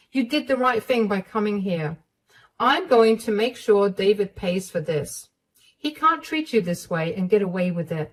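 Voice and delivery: determined mother-in-law. Acted. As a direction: promise to make him pay.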